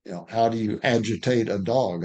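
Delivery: ordinary talk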